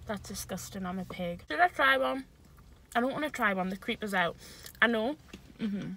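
talking while chewing; mouth full. Real, not acted. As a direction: speak through a mouthful of food. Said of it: "Don't talk with your mouth full".

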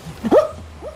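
yappy chihuahua voice. Real, not acted. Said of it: "It just sounds like a fucking small dog".

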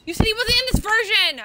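high-pitched, indignant wail; upset accusing. Real, not acted. Player accusing Hugh about who is in the game, upset high wail. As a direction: protest in a high, dragged-out whine of betrayal.

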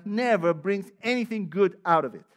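loud, stressed "never" falling at the end; forceful. Acted. Pastor warning the church, loud and forceful. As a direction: proclaim it firmly to the room.

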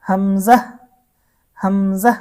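হামজা ending short, without drawing out the vowel; no stretch. Shown as a demonstration. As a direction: cut the final a of হামজা short. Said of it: "কোনো টান হবে না". (হামজা টান ছাড়া)

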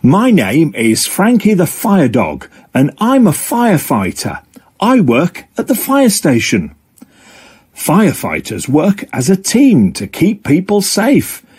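lightly voiced cheerful fire dog; lightly voiced upbeat fire dog; Frankie the fire dog. Frankie introduces himself in first person.

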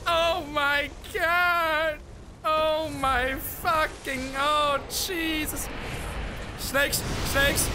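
slow, stretched exclamations of disbelief; drawn-out dismay. Real, not acted. Player swamped by enemies, dismayed exclamations. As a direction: drag out each cry in dismay.

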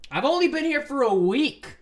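high, loud objection; indignant protest. Acted. New roommate defending against accusations, indignant protest. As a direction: cry it out in protest.

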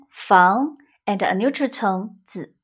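房 rising, 子 light and toneless; rising then neutral tone. Shown as a demonstration. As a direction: lift 房 up, let 子 fall away lightly. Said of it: "A rising tone".

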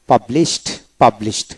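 পাবলিশড ending in a "t" sound, "pab-list". Shown as a demonstration. Teacher showing learners the past form: পাবলিশড ending in "t". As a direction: turn the final ড of পাবলিশড into ট. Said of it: "দিতে ট উচ্চারিত হয়".

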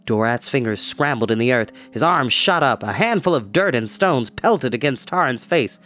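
steady storyteller reading an adventure aloud; story narration. A narrator's reading. Storyteller reading a battle chapter to kids, dramatic narration. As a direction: read the fight scene to the kids, building tension.

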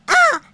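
very high, loud shriek; loud startled shriek; short scream. Real, not acted. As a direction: scream in fright. Scream at scare.

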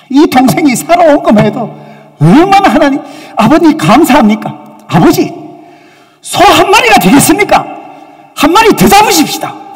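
the son happily begging his father for another feast; a son overjoyed at his brother's return; joyful son. Pretend. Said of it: "이렇게 얘기했으면 얼마나 좋았을까요".

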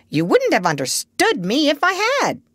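high parrot retort; bossy parrot. A narrator's reading. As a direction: put the doctor in his place as a bird.

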